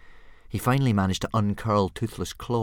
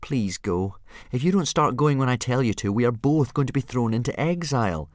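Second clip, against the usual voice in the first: reasonable; 5 semitones higher, 4 dB louder than usual. Acted. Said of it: "as reasonably as he could".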